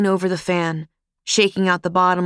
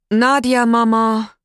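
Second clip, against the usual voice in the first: loud call to another room; 4 semitones higher, 5 dB louder, slower than usual. A narrator's reading. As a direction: shout back over the kitchen noise. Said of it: "Flocka called back".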